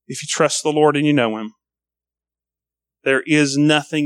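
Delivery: low, gentle, heartfelt pastor; tender reassurance. Real, not acted.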